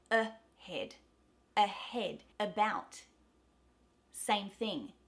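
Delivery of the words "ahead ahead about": ahead and about with schwa start; slow drill reading; repetition drill. Shown as a demonstration. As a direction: clear model words to repeat. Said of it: "have a listen and repeat it".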